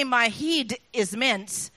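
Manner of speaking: slow broad Scots, drawn out; Scottish accent. Shown as a demonstration. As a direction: say it slowly like a puzzled Scot. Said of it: "when they say".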